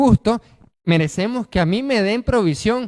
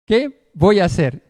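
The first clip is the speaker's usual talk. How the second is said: anxious worry; 3 semitones lower, 5 dB louder than usual. Acted. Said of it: "entonces él dijo".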